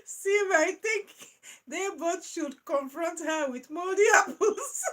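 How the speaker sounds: joking suggestion while laughing. Real, not acted. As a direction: push it out through laughter.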